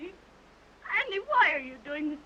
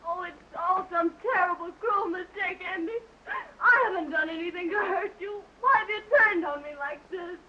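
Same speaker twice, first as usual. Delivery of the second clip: tearful pleading. Acted. Pleading with leaving lover.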